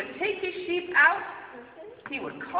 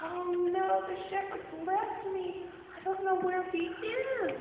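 scared lost sheep; 6 semitones higher than usual. Acted. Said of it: "feeling very, very scared".

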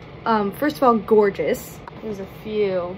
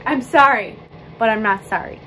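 mock apology; 5 dB louder than usual. Mock apology, lipstick rant.

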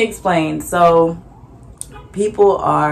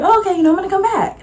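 whispered customer; 13 semitones higher, much faster than usual. Retold or imitated. Second customer voiced, whispered.

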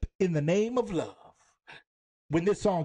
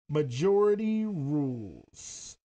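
slow, drawn-out title call; game show announcer; 3 semitones lower, much slower than usual. Acted.

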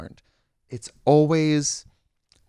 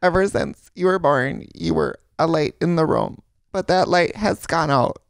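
mock Wisconsin accent, higher and drawn out; hammed-up Midwestern intervention letter, slow; imitating a Wisconsin family reading an intervention letter; 5 semitones higher, slower than usual. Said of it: "they have the super Wisconsin accent".

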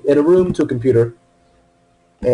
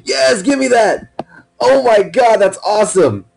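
high, thrilled and grabbing for it; gleeful, drawn-out "give me that"; excited; 9 semitones higher, slower than usual. Real, not acted. Gamer thrilled at a new suit, gleeful high cries.

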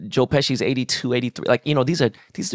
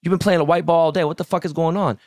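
retold confrontation; 6 semitones higher than usual. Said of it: "walked over to him and said".

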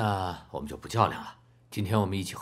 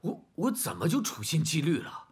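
higher, defensive disbelief; indignant protest; 9 semitones higher than usual. Acted. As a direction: push back, offended and rising. Father protests an accusation.

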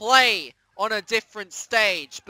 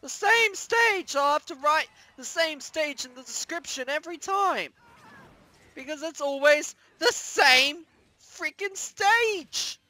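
exasperated whine; 6 semitones higher than usual. Real, not acted. Gamer moaning about the same stage, high exasperated. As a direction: whine it out, sick of it.

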